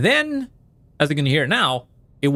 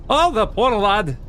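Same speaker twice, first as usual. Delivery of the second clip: a slow, higher put-on British voice; hammed-up British pity; failed British accent; 4 semitones higher, slower than usual. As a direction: say it like a sympathetic Brit, badly. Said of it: "I'm failing at all the accents".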